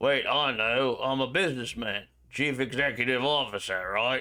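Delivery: put-on drunken, tipsy British accent. A player speaks in character during a role-play game, drunk British voice. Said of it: "I'll use the old drunk British voice".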